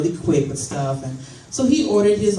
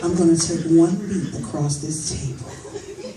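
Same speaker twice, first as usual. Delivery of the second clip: laughing mock threat.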